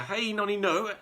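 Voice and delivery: put-on gleeful old grandma singing out; shouting old crone. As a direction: chant it with a cackle. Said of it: "she shouted".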